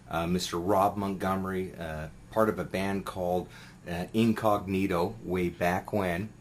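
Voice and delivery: talking while chewing a candy; words round a lozenge in the mouth; mouth full. Real, not acted. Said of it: "I'm chewing a, a candy here".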